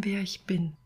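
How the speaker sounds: whispered very softly; whispered plea; hushed whisper. Acted. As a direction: let it fall to a breath. Soul grows quieter, whispers.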